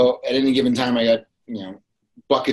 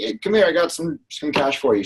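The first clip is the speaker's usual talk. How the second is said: eager call; 4 semitones higher than usual. Retold or imitated. Calling an old lady over to hand her cash, eager.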